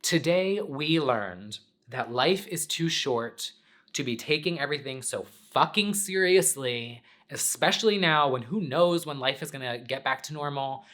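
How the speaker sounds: lightly mock lesson-wrap tone, slowed on the first line; half-playful recap of today's lesson; imitating her old sign-off. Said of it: "At the end of my weekend chat, I'd be like".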